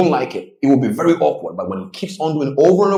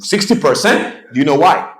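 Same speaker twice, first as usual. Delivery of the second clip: astonished millionaire; 4 semitones higher, 3 dB louder than usual. Retold or imitated.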